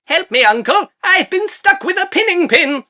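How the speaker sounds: high, loud put-on plaintive voice; pleading little bug. Pierced bug begging its uncle, high mock plea. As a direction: call for help as a tiny hammed-up creature. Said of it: "which is like".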